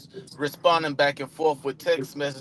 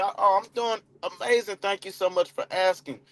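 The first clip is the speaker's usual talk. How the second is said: upbeat reply; 3 semitones higher than usual. Shown as a demonstration. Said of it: "then I go into".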